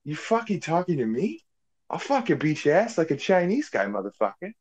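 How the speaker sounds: badly faked tough Boston guy; hammed-up tough-guy Boston threat; Mark Wahlberg voice. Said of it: "I can do a fairly bad, uh, Mark Wahlberg impression".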